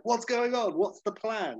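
high, keen acted-out questions; mock eager questioning. Girl joining the family adventure, high mock eagerness. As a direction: play someone up for it, pitched high.

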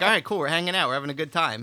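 mock cheerful. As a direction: play it relaxed and happy. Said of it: "I'm like".

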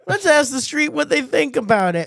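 hammed-up TMZ anchor; tabloid news anchor. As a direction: announce it like a gossip show host. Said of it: "how the T M Z reported".

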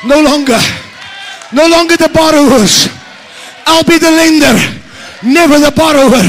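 forceful preacher proclamation; preaching declaration. Acted. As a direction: proclaim it boldly to the crowd.

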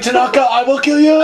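high, hammed-up death threat; mock vengeful threat. Man going door to door for Tanaka, mock threatening. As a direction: play at threatening your sworn enemy.

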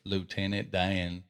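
slow imitation of a Southern drawl; Forrest Gump. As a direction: stretch "Dan" into two syllables, Southern style. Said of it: "and sound like Forrest".

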